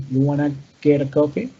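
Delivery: "You wanna get a coffee" run together, the "Do" almost swallowed; quick, contracted pronunciation. Shown as a demonstration. Teacher showing how casual invitations contract, quick linked pronunciation. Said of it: "lo trato de hacer muy rápido".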